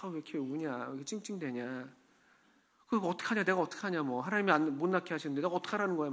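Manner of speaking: imitating a fed-up husband under his breath, quick at the end; irritated husband. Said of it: "짜증내고 막".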